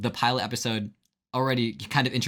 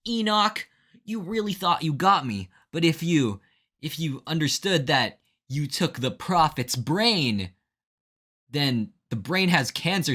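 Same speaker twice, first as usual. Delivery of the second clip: anime protagonist; 4 semitones higher than usual. Retold or imitated. Stephen countering Enoch, in a high, hammed-up hero voice. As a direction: turn the tables like a triumphant anime hero. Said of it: "hits him with the anime protagonist".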